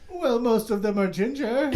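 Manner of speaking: a lightly voiced Irish character; Peeves accent. Peeves answers the host in a light brogue. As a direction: keep a hint of the Peeves brogue. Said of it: "Peeves accent".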